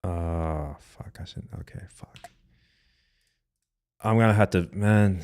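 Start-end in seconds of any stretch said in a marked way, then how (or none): 0.0-2.3 hushed curses under the breath; whispered swearing. Real, not acted. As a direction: swear quietly to yourself. Cursing at a ruined edit.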